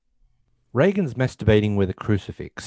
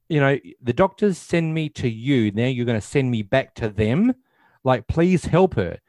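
higher-pitched imitated pleading, building at the end; exasperated plea; 4 semitones higher than usual. Chris begs Father Karras to help her daughter, acted exasperated plea. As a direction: plead as a mother passed back and forth.

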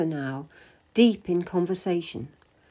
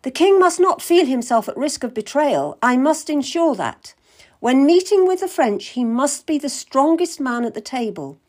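louder, deliberate statesman; musing cardinal; 4 semitones higher, 4 dB louder than usual. Acted. Cardinal musing on the king's strength, louder and deliberate. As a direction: think it through aloud, firmly.

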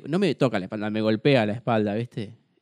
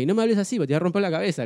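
higher, heated mock threat; retold angry threat; 5 semitones higher, faster than usual. Retelling his threat to the heckler, angry. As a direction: lay down a warning, retelling it heatedly.

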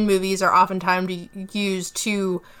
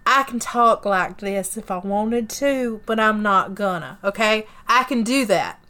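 put-on Southern accent. Shown as a demonstration. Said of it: "I can put on a, a Southern accent".

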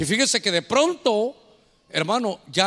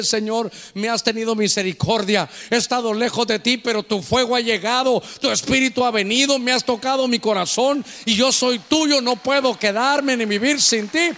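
louder, pleading cry to the Lord; fervent prayer; 3 semitones higher, 3 dB louder than usual. Acted. Repentant believer crying out to the Lord, fervent and loud. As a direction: pour out a repentant heart, loud.

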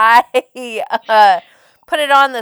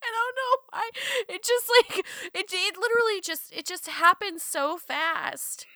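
high, softer voice weak from laughing; trying to talk while recovering from giggles; giggly, spent; 8 semitones higher, 7 dB quieter than usual. Real, not acted.

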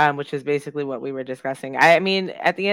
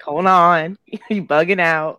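mock hold-on; 3 semitones higher, 7 dB louder, slower than usual. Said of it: "I was like".

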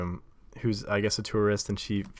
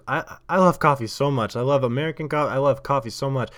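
louder, gushing Polish-accented imitation; bubbly mock Polish accent; excited Polish accent; 4 semitones higher, 4 dB louder than usual. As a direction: mimic an enthusiastic Polish tourist. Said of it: "talking excitedly with what I can only".

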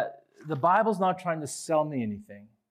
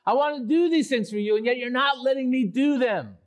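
much higher, louder pleading; desperate psalmist; 11 semitones higher, 4 dB louder than usual. Acted. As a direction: beg God to let him live. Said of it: "He's telling God".

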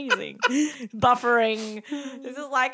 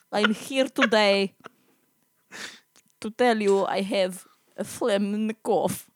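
bad Russian accent; 2 semitones lower than usual. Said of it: "this is not very good accent".

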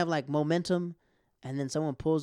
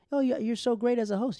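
gushing booker mimic; 9 semitones higher, 5 dB louder than usual.

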